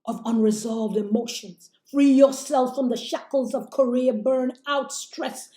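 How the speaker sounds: building inspirational address; rousing empowerment speech; motivational speech. Acted. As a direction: preach it to the women watching. Motivational live opening speech.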